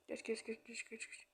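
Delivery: fading to a whisper; whispered urging. Real, not acted. Urging game to skip. (fısıltıyla acele ettirme)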